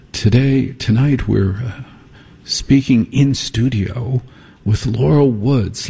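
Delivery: lightly mimicked, measured public radio read; a hint of a solemn NPR interviewer; mock public radio host. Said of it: "here, this is how they do it".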